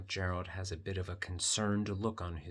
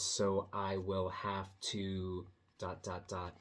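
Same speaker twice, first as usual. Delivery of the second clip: trailing pause; 2 semitones lower, 3 dB quieter, slower than usual. Shown as a demonstration. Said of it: "you sort of pause in what you're saying".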